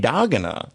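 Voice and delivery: "Hiragana" as hi-RA-gana; wrong-syllable stress. Retold or imitated. Echoing co-host's slip, "Hiragana" as hi-RA-gana. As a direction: echo the mistake, stressing RA in "Hiragana".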